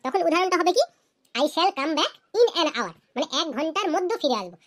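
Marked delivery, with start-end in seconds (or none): 1.3-2.9 very slow, word by word for students to copy; slow dictation. Shown as a demonstration. Teacher reading an example to students, very slow and deliberate. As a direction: spell it out slowly like dictating to a class. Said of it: "teacher dictates example sentence".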